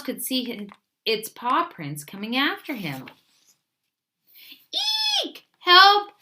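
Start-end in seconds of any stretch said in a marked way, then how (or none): 5.2-6.1 very high, loud panicked squealing; terrified squeaks. A narrator's reading. Little Mouse chased by his own paw prints, squealing in panic. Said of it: "squeaked Little Mouse".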